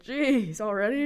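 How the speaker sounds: surprised at the quick Queen books; retold surprise. Shocked at Barnes and Noble, mild surprised exclamation. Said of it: "I was like".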